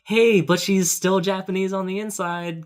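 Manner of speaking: high-pitched mock excuse; mock reassurance. Podcaster voicing filmmakers excusing their casting, mock reassurance. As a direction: pitch it up like a feeble justification. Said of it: "a little less of a".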